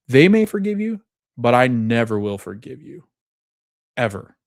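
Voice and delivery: retold outburst, mildly acted; losing it. Gabby tells Lewis she will never forgive him, losing it. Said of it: "Gabby's losing it at this point".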